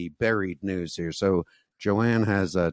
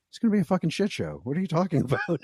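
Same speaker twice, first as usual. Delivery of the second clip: mock exasperated; 10 semitones higher, much faster than usual. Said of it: "he's just like".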